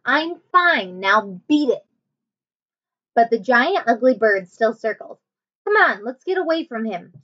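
put-on lively read-aloud voice for children; story narration. A narrator's reading. Teacher reading a chapter book to her class, animated.

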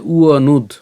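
উয়নুদ opening on a ua glide. Shown as a demonstration. Teacher explains the semivowel, উয়নুদ said with opening ua. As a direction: begin উয়নুদ with u-a instead of b. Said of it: "উয়োর মতো যদি উচ্চারণ করি".

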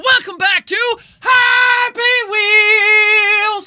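loud, slow, half-sung yell; loud and proud. Acted. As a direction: belt the show name out, drawing it out. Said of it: "not loud and proud enough".

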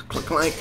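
imitated ladder clank. Imitates ladder against the house.

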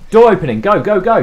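high, loud call to move; urgent shouted order. Real, not acted. Player sends teammates to open doors, urgent shout. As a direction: shout them into action.

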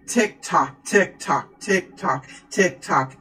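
measured, evenly spaced clock ticks; ticking clock rhythm. Pretend. Tarot reader showing time keeps moving, ticking clock rhythm.

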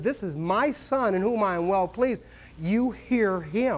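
voice of God. Retold or imitated. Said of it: "God said".

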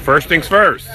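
dad yelling from the stands as son races; cheering shout. Real, not acted. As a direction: scream him on to the finish. Dad yelling at son's race.

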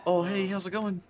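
mock Kiwi greeting; put-on New Zealand lilt; New Zealand accent. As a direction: say hello as a friendly Kiwi. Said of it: "This is how they talk over there".

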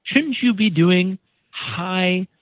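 high, slowed disbelief that settles back down; incredulous. Retold or imitated. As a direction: act shocked at what he sees. Friend questions his sweeping.

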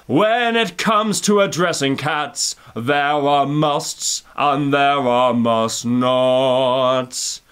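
low, slow, solemn Dame voice; imitating Judi Dench. Judi Dench lecturing the audience, low and slow. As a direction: deliver it like a grave lesson. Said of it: "something along the lines of".

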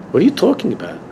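incredulous question, pitch jumping up; retold burst of disbelief; incredulous objection. Speaker and Rebbe object to a man's claim, incredulous.

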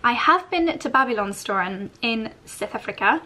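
a bad put-on South African accent on the place name; self-mocking South African accent. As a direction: try a South African lilt and miss. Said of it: "That was the worst accent ever".

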